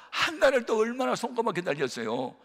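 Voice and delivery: laughing. Real, not acted. Preacher laughing while recalling the wait. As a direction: chuckle at your own hope.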